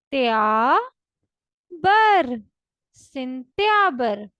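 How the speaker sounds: त्या and बर loud, split apart; syllable by syllable, then सिंत्याबर whole; Russian sentyabr. Shown as a demonstration. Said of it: "Russian language में कहते हैं सिन". (सिन... त्या... बर, फिर सिंत्याबर)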